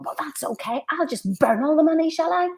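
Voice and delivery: hammed-up sarcastic scold; mock sarcastic mother. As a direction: imitate a mother guilt-tripping her kid about money. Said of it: "mother shouting at her daughter".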